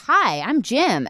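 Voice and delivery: Jim's greeting. Retold or imitated. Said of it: "he goes".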